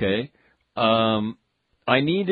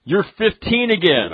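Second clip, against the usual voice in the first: cheery doctor voice; 6 semitones higher, 4 dB louder than usual. Retold or imitated.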